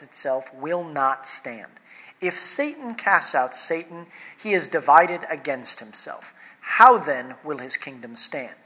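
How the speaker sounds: measured, formal reading of scripture; solemn Bible reading. Acted. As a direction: read the passage aloud to the congregation. Reads scripture passage aloud.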